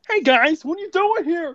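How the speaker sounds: high squeaky joke Megatron. Acted. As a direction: do a silly squeaky villain. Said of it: "my Megatron voice".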